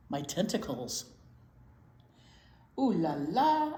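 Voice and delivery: playful snail character with a touch of French flair; a vain snail fishing for compliments; flirty snail. Acted. Snail Escargot flirting with his travel companion, playful and teasing.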